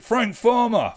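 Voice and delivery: high, loud and slow, a silly dramatic voice; odd put-on voice. Quiz host blurting the answer to players in a silly put-on voice. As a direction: lingers on the name in a mock-grand voice. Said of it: "I don't know why I said it like that".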